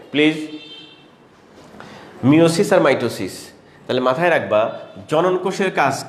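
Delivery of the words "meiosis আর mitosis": very slow, every syllable drawn out; slow and clear. Shown as a demonstration. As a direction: say it slowly so it sticks. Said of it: "তাহলে মনে রাখবে এভাবে". (খুব ধীরে, স্পষ্ট করে)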